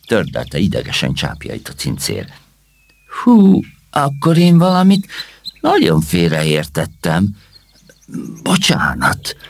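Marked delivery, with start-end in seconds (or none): 3.2-9.4 sad sigh. Acted. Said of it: "sóhajtott szomorúan Csipek".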